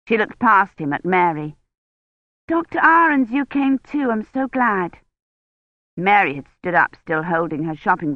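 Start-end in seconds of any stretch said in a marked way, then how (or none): 2.5-5.0 put-on lightly raised young woman's voice; eager young historian greeting her mentor; a lightly voiced excited girl; bright young Kivrin. A narrator's reading.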